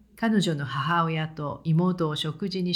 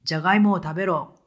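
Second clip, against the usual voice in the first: louder, fast barked command; retold angry outburst, loud and quick; angry order; 5 dB louder, much faster than usual. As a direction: snap it out like a furious son. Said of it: "怒りながら".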